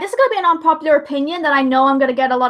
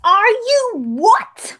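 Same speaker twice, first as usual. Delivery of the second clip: laughing disbelief; 7 semitones higher, 4 dB louder, much slower than usual. Real, not acted. Hears Bulk Biceps played her.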